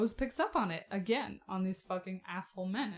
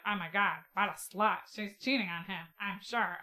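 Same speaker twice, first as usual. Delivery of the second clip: pinched nasal voice, gossiping; nasally voice. Retold or imitated. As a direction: sneer it through your nose. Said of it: "such a nasally voice".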